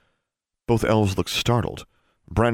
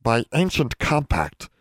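slow, higher, formal elf voice; solemn; 6 semitones higher than usual. A narrator's reading. Elf explaining an ancient rule, solemn. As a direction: intone it with ceremony. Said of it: "His voice was deep and solemn".

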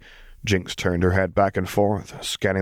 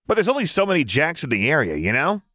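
giddy Jinx voice; 9 semitones higher than usual. A narrator's reading.

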